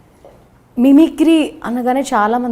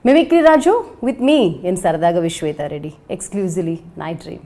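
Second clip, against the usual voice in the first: presenter's opening, key names hit hard; TV show introduction; 4 dB louder than usual. Acted. Host introducing a mimicry artist to viewers, announcer style. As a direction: announce the guest with punchy emphasis.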